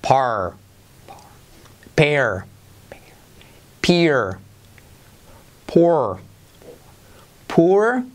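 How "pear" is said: "pear" whispered without voice; "pear" whispered, falling; whispered drill word. Shown as a demonstration. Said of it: "repetimos de arriba abajo".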